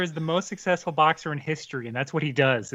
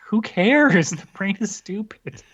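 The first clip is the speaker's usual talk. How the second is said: higher, mock fed-up reader; dismissive reader; 5 semitones higher, slower than usual. Host voices bored reader sick of the fight, dismissive. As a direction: voice a reader who's lost patience, ending in a laugh.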